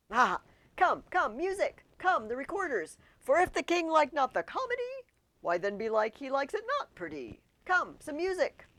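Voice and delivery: high, loud, giddy calls; over the top happy. Acted. Hamlet calls for music, over the top happy. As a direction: bounce with manic glee. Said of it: "over the top happy".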